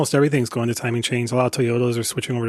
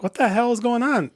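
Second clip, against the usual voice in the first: sharp, raised what-the-hell question; exasperated; 10 semitones higher than usual. Retold or imitated. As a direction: demand an answer, fed up. Angry call to parts counter.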